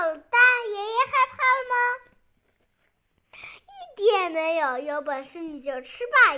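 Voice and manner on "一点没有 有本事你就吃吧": mild mock growl from a defiant grandpa; a child storyteller's touch of fierceness; fierce roar. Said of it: "爷爷凶狠地吼道". (略带凶狠地吼)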